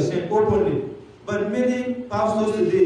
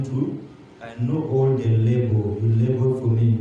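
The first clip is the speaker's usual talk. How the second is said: lower, soft, tender voice of God; quiet and gentle; 3 semitones lower than usual. Acted. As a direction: comfort a tired son gently. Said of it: "Very quiet, gentle".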